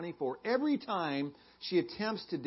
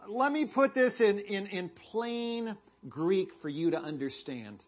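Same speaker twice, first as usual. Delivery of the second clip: snarky; 3 semitones higher than usual. Acted. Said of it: "just a little bit snarky?".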